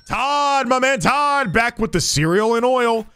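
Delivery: high, happy hello to Todd; light up at a regular; delighted greeting. Real, not acted. Cashier greeting his favourite customer, high and delighted.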